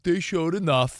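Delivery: they showed enough said slowly and flatly; mock the lukewarm reading slowly; flat grudging delivery. Shown as a demonstration. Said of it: "you're delivering it like".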